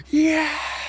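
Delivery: breathy whispered mock celebration; imitating a whispered yes. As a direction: mouth a private yes. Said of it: "just goes".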